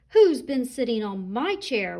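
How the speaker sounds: a lightly loud papa rhino roar; great big Daddy Rhino voice. Acted. Daddy Rhino spotting the chairs, mild booming roar. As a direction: boom it out like a big rhino dad. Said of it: "roared Daddy Rhino in his great big voice".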